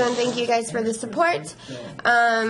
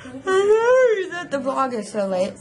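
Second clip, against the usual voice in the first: mock crying apology; 3 semitones higher than usual. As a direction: fake teary, whiny apology. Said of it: "No, I am being sincere".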